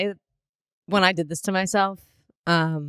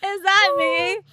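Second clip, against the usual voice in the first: disbelieving; 12 semitones higher, slower than usual. Real, not acted. Disbelief at own look.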